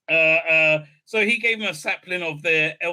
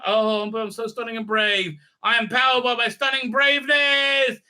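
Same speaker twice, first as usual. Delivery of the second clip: higher, hammed-up self-admiring boast; mock heroic; 5 semitones higher than usual. Reviewer mocks the swimming heroine's bravery, mock heroic. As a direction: build into a mock-heroic declaration.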